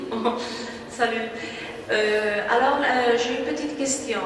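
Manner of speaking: halting non-native French accent; hesitant French with a foreign accent; broken French. Real, not acted. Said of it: "Je parle un peu français".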